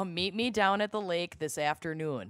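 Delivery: flat Minnesota vowels; Minnesota accent. Shown as a demonstration. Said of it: "please give us a sample".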